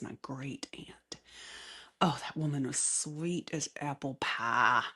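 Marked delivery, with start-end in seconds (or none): 2.0-4.8 a touch of Southern US accent. Real, not acted. Host fondly remembering her great aunt, Southern accent. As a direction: slide gently into a Southern US accent. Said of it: "go in and out of a Southern accent".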